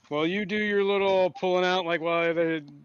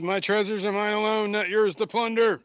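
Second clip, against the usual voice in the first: raised, louder monster declaration; monster's pronouncement; 5 semitones higher, 5 dB louder than usual. Acted. Game master repeating the monster's warning, loud imperious declaration. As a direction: proclaim it loudly, drawing out the end. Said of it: "So he says".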